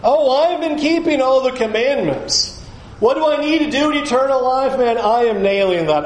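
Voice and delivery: smug self-righteous. Retold or imitated. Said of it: "this guy thinks he is".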